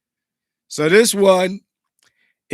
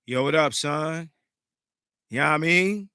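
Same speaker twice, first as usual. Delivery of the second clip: New York street slang greeting; casual New York accent impression. Shown as a demonstration. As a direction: say it like a New Yorker. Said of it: "from New York".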